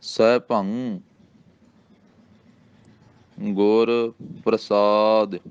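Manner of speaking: ਸੈਭੰ ends in a nasal, no g; ਸੈਭੰ, ਗ ਨਹੀਂ; ਸੈਭੰ without g. Shown as a demonstration. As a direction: say ਸੈਭੰ not ਸੈਭੰਗ, slowly. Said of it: "ਸੈਭੰਗ ਨਹੀਂ ਕਹਿ ਦੇਣਾ".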